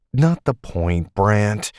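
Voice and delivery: coolly. Acted. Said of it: "Taylor said coolly".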